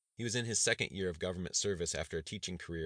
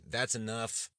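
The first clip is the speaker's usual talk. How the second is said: higher, firm shut-down; cutting off; 6 semitones higher, 3 dB louder, much slower than usual. Acted. Governor silences his cabinet's protest, firm. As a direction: end the argument now.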